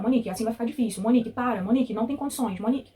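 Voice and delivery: curt mock scolding; rude nurse. Patient imitating the impatient nurse during the epidural, mildly scolding. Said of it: "ela tava sendo bem grossa".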